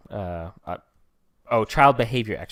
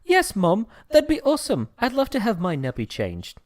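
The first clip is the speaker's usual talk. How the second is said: a higher, lightly put-on baby; mock baby voice; 6 semitones higher than usual. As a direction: voice a polite baby agreeing. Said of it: "a baby's not going to respond".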